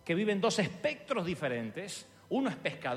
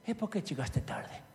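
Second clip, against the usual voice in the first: mock Italian boss, then high, loud, laughing excuses; 7 semitones higher, 5 dB louder than usual. Preacher recalling his Italian boss asking why he was late, acted out in voices. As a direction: act out a stern boss and a panicked worker. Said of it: "jefe italiano que me dice".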